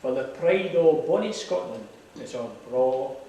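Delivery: reciting a poem in broad Scots; lilting Scots verse recitation; broad scottish accent. Acted.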